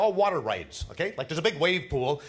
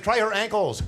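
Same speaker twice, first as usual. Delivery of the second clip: punchline quip; 7 semitones higher, 5 dB louder than usual. Retold or imitated. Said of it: "I said".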